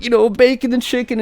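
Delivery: high-pitched imitation of a kid; lightly hammed-up child voice; mock crying child. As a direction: briefly mimic an upset little girl. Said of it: "she's crying like that during dinner".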